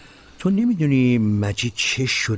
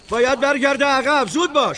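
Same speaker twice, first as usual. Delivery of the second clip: high, louder urgent order; urgent command; 14 semitones higher, 3 dB louder than usual. Acted. Commander ordering the wounded back, urgent shout. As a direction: hurry them along.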